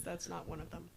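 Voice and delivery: hushed, quiet admission; whispered aside. Real, not acted. Aside about accents.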